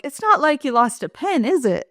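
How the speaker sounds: lightly acted socially awkward remark; awkward consolation. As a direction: tack on a clueless tag question. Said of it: "with more awkwardness".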